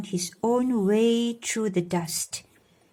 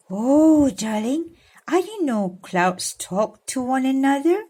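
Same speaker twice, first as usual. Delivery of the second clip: higher, wide-eyed wonder; mock amazement; 4 semitones higher than usual. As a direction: pretend to be amazed for the child.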